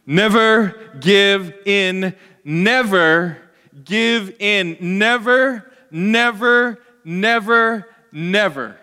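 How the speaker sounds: slow, loud British bulldog growl of defiance; grumpy British bulldog. Acted. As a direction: hammer each word out like an old British statesman. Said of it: "grumpy bulldog, British bull voice".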